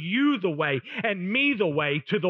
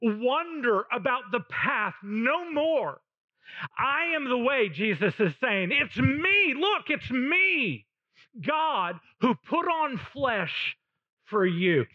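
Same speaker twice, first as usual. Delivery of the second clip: higher, slow, tender plea with a catch of crying; preacher voices Jesus pleading with the world, slow and higher; 5 semitones higher, slower than usual. Acted. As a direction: voice Jesus calling the whole world home. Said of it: "That is Jesus saying to the entire world".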